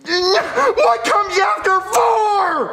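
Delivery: slow, wailing question; crying frustration. Acted. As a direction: whine it out, close to tears. Jeffy stuck while counting.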